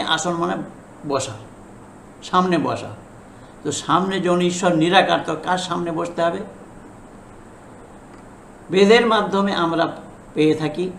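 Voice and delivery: ordinary talk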